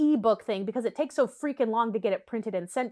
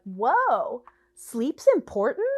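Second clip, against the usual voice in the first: drawn-out sarcastic wonder; mock amazement; much slower than usual. Reader reacting to the book's obvious sleep tip, mock amazement. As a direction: act slowly astonished by the obvious.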